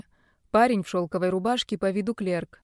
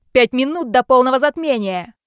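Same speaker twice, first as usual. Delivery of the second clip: shrieking order; 5 semitones higher, 10 dB louder than usual. Acted. Villain shrieks at his men to stop the attackers, high loud shriek. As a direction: shriek at the thugs to stop her.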